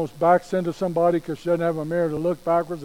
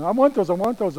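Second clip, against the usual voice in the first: put-on high singsong child pestering; nagging little kid; 4 semitones higher, 4 dB louder than usual. Little kids who keep going on, nagging child voice. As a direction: repeat it insistently like a begging kid. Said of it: "you know how little kids just keep going on".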